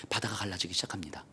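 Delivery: hushed whisper. A narrator's reading. Narrating the sea parting.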